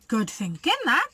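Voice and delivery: lightly voiced Len; a crook's lightly voiced approval; Len's voice. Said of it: "said Lanky Len".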